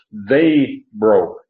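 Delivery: THEY and BROKE each hit hard; weighty stress on both They and broke; emphatic stress. Shown as a demonstration. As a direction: punch out "They broke" word by word. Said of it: "We don't emphasize emphatic terms".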